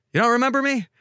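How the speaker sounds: high mock voice of a pushy stranger; mock pushy bar regular; imitating the bar guy. Guy at bar confronting date.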